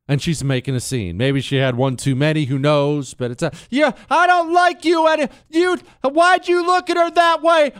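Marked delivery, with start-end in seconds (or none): 3.7-7.7 high, loud, mocking shriek; angry drunk girlfriend. Girlfriend chewing out her man in a restaurant, a high, loud shriek. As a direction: make the scene, accuse him loudly. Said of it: "she's getting loud".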